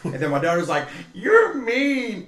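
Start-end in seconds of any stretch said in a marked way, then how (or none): 1.1-2.2 put-on high, louder little-kid accusation; imitated upset child. Daughter scolding dad for laughing, high mock-upset voice. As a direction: wail it like an offended toddler.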